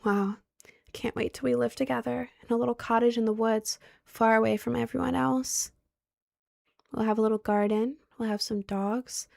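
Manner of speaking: whispered, soft creepy daydream. Retold or imitated. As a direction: whisper it like an obsessed stalker. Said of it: "he was doing, like".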